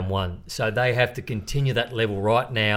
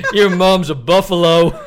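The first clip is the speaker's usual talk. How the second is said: louder, slow quote broken by laughter; laughing while quoting; 7 semitones higher, 10 dB louder, slower than usual. Retold or imitated. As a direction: quote the insult while cracking up. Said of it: "He goes".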